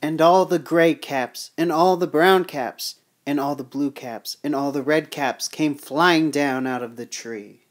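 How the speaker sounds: measured storybook narration; story read-aloud. Acted. Reading the peddler's tale to children, storytelling voice.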